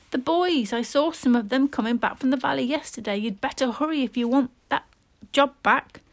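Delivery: put-on a village boy hurrying his friend along; boy urging. A young boy telling his friend to hurry.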